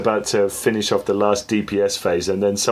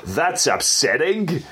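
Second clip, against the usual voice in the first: Australian robot; 4 semitones higher, slower than usual. Pretend. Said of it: "weird fucking Australian robot shouting".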